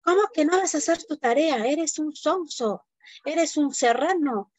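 teacher mocking the pupil from the mountains; contemptuous teacher. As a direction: sneer at the boy in front of the class. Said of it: "le discrimina delante de todos".

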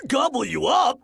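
genuinely baffled; surprised wolf. Acted. Wolf astonished at the pigs, high surprised. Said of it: "asked the wolf".

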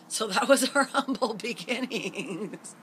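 ironic laugh. Real, not acted. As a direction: laugh at the irony of it. Laughs at violent story ending.

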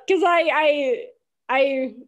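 embarrassed laugh. Real, not acted. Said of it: "laughs while explaining".

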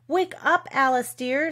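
high, lifted wake-up call; storybook sister rousing the child. A narrator's reading. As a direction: call brightly to wake a sleeper. Sister wakes the sleeping Alice.

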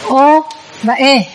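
O and E held long; long Pali O and E; long vowels. Shown as a demonstration. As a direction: give O and E full, sustained length. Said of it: "Năm nguyên âm dài".

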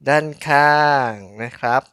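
usual speaking voice

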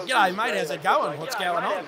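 light mock Aussie greeting; imitating the Australian accent. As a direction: toss off a casual G'day mate. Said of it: "does the Australian accent".

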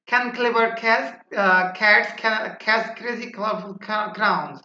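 moderately quick tongue twister with stumbles. Shown as a demonstration. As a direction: pick up the pace, tripping and restarting. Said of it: "তারপর আবার একটু, আহ, আহ, দ্রুত".

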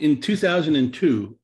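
"two thousand and two" said slowly and deliberately; emphatic year. Real, not acted. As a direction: underline "two thousand and two" with slow, weighty stress. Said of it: "I underline the word".

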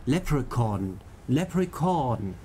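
Leprechaun, last syllable stretched; careful Leprechaun, lingering on the end; lengthened ending. Shown as a demonstration. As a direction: practise Leprechaun with a long final chaun. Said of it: "der sagt das Ende länger".

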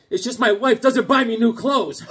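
laughing through the punchline; laughing at own joke about wife. Real, not acted.

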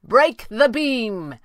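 high, loud, very slow call; drawn-out commanding shout, falling at the end. A narrator's reading. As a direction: order it up to someone far above. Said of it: "he called".

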